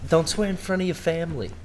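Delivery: hushed Boston scolding; Boston accent. Acted. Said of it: "Anytime I hear that voice".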